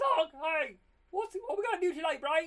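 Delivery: very high, loud, squealing cartoon voice. Showing which cartoon voice is easier to do: Pinky voice. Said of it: "I'm much better at doing".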